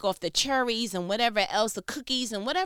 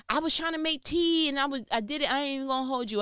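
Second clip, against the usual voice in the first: higher-pitched mock excuse; imitated defensive husband; 5 semitones higher, faster than usual. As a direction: act out a husband pleading his case. Acting husband defending himself in argument.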